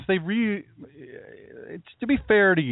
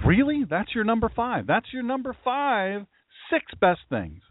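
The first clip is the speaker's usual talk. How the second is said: incredulous scoffing; 6 semitones higher than usual. Pretend. Scoffing at Bill's choice.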